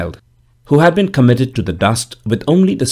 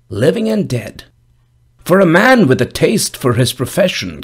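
put-on old gravedigger voice; 4 semitones higher than usual. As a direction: speak as a dour old gravedigger, raised pitch. Gravedigger tells his trade.

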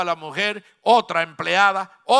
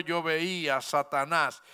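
lower, softer quoting of the Lord; low solemn voice of the Lord; 5 semitones lower, 7 dB quieter than usual. Retold or imitated. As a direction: speak it gravely and hushed. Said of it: "qué le dijo el Señor".

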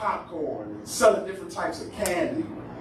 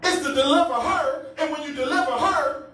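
raised, preached plea to God; crying out; 5 semitones higher than usual. Acted. Mother begging God to deliver her daughter, pleading. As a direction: press the plea, pitched up high. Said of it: "ain't gonna just cry out for God".

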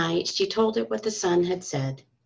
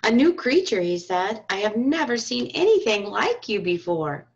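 startled wonder; 2 semitones higher than usual. Acted. The startled sun meets the badger, amazed. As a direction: gasp it out in surprise.

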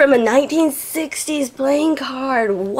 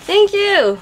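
high-pitched thrilled thanks; excited squeal; 9 semitones higher than usual. Real, not acted. Thanking the sender of a package, excited squeal. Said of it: "wrecking your ears".

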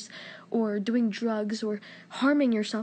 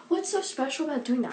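higher-pitched, slipping into British; accidental British accent; 4 semitones higher than usual. Real, not acted. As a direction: let a British accent slip in unintended. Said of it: "my accent went British".

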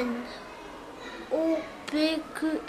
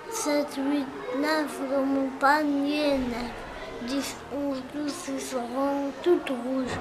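poem recital. Acted. Child recites a counting poem.

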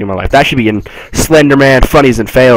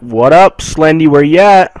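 cocky; 5 semitones higher, 4 dB louder than usual. Pretend. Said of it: "walk in here like".

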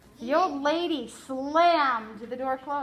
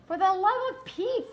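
put-on higher, louder exasperated girl; 8 semitones higher, 5 dB louder than usual. Flora snapping at the doctor, exasperated and louder. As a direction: blurt it out, fed up.

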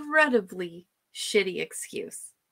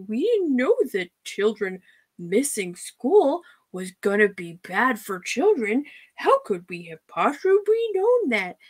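mocking her. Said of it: "She talks about the kids that, like".

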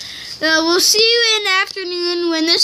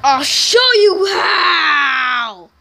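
menacing villain; much slower than usual. Acted. Villain threatens revenge on rival.

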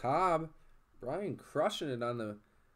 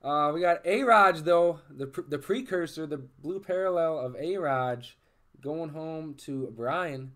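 excited; 3 semitones higher, 8 dB louder than usual. Real, not acted. Hyped reveal of card.

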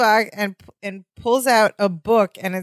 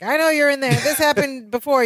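higher-pitched imitation of a caller; Gorpley; 6 semitones higher than usual. Shut-out guest calls to those inside, mock complaint. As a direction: call through a door, pitched up. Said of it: "we hear Gorpley's voice again".

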